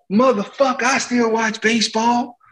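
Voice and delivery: high slow put-on Jordan voice; mock Jordan. Jordan teasing the pitcher, high and slow. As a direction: pitch it up, drawn out, amused.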